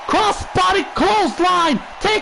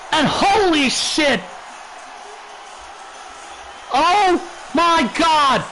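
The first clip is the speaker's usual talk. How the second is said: shocked; slower than usual. Acted. Shock at a surprise entrant.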